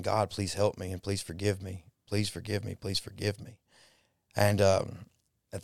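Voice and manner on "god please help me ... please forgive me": softly imitating a man's mumbled plea; quiet, understated repeated plea, trailing softer; retold mumbled prayer. Child overhearing his uncle's desperate prayer, retold as a soft mumble. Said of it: "I could hear him mumbling".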